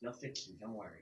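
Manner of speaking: hushed, soft half-whisper, barely audible. Voicing a character who half-whispers to his companion: character half-whispering. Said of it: "you hear him whisper".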